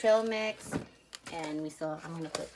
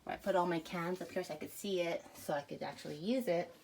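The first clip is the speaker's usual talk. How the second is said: out of breath; 3 dB louder than usual. Real, not acted. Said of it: "I just finished working out, so I'm, like, out of breath".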